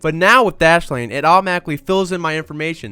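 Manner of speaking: ad read. Acted. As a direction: pitch the product with energy. Reads the sponsor ad.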